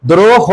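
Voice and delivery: দ্রোহ ending in a clear "o"; দ্রোহ in two syllables, o in both; final o sound. Shown as a demonstration. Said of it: "শেষে ওকার দিও".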